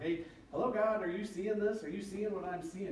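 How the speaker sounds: lightly acted exasperation; mock complaint. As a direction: call God to attention, exasperated. Acting out complaint to God.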